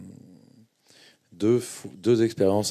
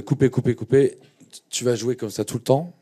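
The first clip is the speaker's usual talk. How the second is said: higher, louder cut-cut-cut call; director cutting; 5 semitones higher, 5 dB louder than usual. Retold or imitated. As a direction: halt the take like a director on set. Director stops the take. (réalisateur qui crie « coupez », plus haut et plus fort)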